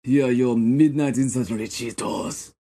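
put-on French accent. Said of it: "your French accent is not amazing".

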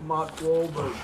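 put-on Boston accent. Co-host announcing himself as a celebrity, put-on Boston accent. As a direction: Mark Wahlberg with the r's dropped, "Mahk Wahlbug". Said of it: "so I can do an accent".

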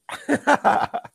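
sudden choking cough; coughing fit. Real, not acted. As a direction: cough as if something went down the wrong pipe. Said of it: "something going down the wrong pipe".

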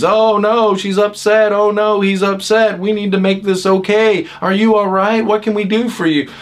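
a hint of panicked rescuer; anxious rescuers. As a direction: fuss over them like a worried helper. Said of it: "the twos or the nines".

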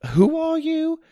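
high, startled question. A narrator's reading. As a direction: blurt it out in shock. Startled narrator confronting stranger.

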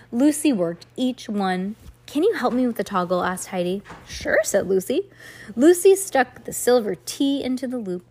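measured, expressive story reading; storybook read-aloud. A narrator's reading. Reader tells a child about two girls dressing up, storybook read-aloud.

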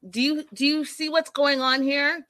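pleading, pitch rising, imitating a son losing it; upset plea. Son losing it with his mother, upset plea. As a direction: ask it exasperated, building up. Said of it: "Farouk loses it".

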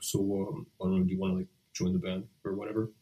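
shy mumbling, trailing off softly; sheepish, halting ask; awkward teen boy. Retold or imitated. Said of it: "just, like, awkward teenage boy".

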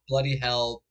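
lightly put-on British accent; badly faked British, said in jest; mock British accent. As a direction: do a half-hearted British impression. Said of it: "That's how you're talking now".

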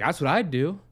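high, loud mocking yell of the mom. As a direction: belt it out like the brash mom. Mom yelling retold.

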